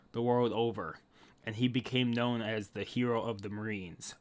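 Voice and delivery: low, softened storyteller reading; story narration. Acted. Telling how Garp became hero of the Marines, solemn narration. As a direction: narrate the legend solemnly, letting it settle. Reads the history aloud.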